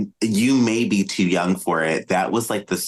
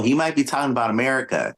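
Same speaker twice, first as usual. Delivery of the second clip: put-on higher-pitched, quick country accent; 5 semitones higher, much faster than usual. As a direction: put on a playful country twang. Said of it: "that was my country accent".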